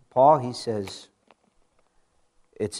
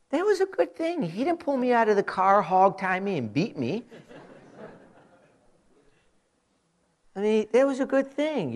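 ironic relief; 8 semitones higher, 4 dB louder than usual. Acted. Ironic relief after traffic stop.

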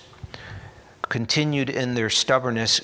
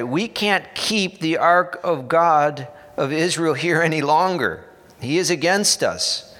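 louder, higher panicked plea; raised voice of a town in panic, pleading to send the ark away; mock cry of alarm; 4 semitones higher, 5 dB louder than usual. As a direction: cry out like frightened Philistines begging. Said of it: "they cried out".

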